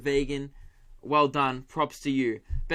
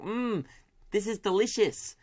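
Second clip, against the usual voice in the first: fake politeness; 5 semitones higher than usual. Fake polite radish eater.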